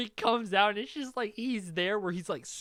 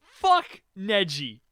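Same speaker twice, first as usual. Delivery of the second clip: angry outburst; 7 dB louder, slower than usual. Real, not acted. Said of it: "I am furious right now".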